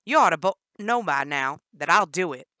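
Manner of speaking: loud furious threat; yelled threat. Acted. Danny yelling threats at Jennifer. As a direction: yell the threat at her. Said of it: "Danny yelled".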